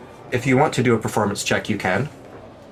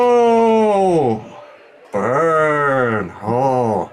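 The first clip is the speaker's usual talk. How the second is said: high burst of delight; excited oh; 4 semitones higher, 4 dB louder, much slower than usual. Real, not acted. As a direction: hoot at a good burn. GM reacts to a burn.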